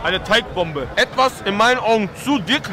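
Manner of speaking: chewing while talking; speaking around food; mouth partly full. Real, not acted. Seen 1: Bites dumpling at -2, mouth still working while talking afterward.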